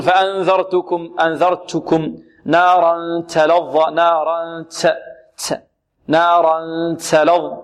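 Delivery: نارا تلظى slowly with the ta turned toward s; over-hiss the ta in تلظى; wrong hissing ta. Shown as a demonstration. Teacher slowly modelling the mistake for students. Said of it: "البعض يقول".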